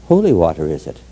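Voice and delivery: lightly acted doubting customs agent; sceptical echo. Customs agent questioning old lady's bottle, mildly sceptical. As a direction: repeat it back with dry doubt, pitch dropping.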